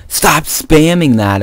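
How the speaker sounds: mildly exasperated imitation; retold complaint. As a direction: imitate a friend objecting, drawn out. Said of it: "he's like".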